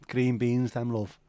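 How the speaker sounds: lightly voiced Scouse mum. Mum answering son in a light Scouse accent. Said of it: "in a Scouse accent".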